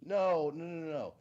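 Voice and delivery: ordinary delivery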